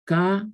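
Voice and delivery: Caer said with the a and e apart, ca-er; separated vowels. Shown as a demonstration. Spanish teacher demonstrating Caer with separate vowels. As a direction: split Caer into two syllables, ca and er. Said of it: "A-E".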